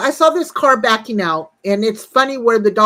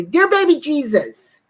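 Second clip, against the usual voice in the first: higher, slow drawn-out appeal; mock prayer; 4 semitones higher than usual. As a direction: stretch out a mock plea to heaven. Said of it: "I'd say".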